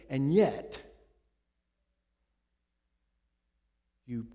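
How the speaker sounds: a prophet confronting the king over his sin; prophetic rebuke. Acted. Nathan rebukes David.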